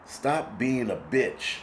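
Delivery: telling himself off, slow and firm; slow self-scolding. Retold or imitated. Talking himself out of the panic, slow and stern. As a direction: drag out a stern order to yourself. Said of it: "I was like".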